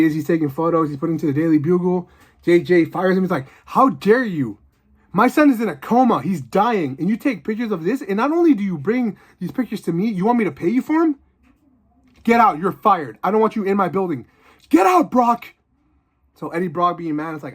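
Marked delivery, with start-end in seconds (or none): 3.7-14.3 indignant boss scolding, pitched higher; mock outrage. Boss firing reporter for photos. 14.7-15.5 high yelled dismissal; furious shout. Retold or imitated. Boss throws reporter out.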